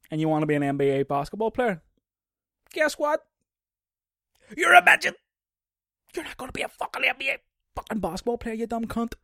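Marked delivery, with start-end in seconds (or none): 2.7-9.1 high, loud, scornful; mock harsh yell. Telling a short person off about the NBA, mock scornful. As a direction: bark it at a dreamer.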